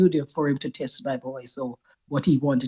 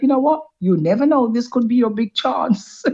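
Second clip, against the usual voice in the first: self-talk; 7 semitones higher, 4 dB louder than usual. Retold or imitated. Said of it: "I said to myself".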